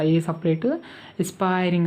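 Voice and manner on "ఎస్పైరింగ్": ఎస్పైరింగ్ as "es-PIE-ring"; pronunciation demo. Shown as a demonstration. Teacher reminding students how to read it, ఎస్పైరింగ్ as "es-PIE-ring". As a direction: pronounce ఎస్పైరింగ్ as a model, "es" plus "pie-ring". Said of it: "అని పలకాలి ఉంటుంది".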